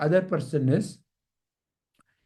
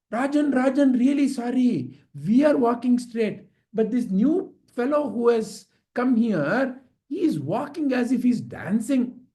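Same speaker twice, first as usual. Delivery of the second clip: lightly voiced higher plea; apologetic servants; 5 semitones higher than usual. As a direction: excuse yourselves to the king. Bearers apologise to angry king.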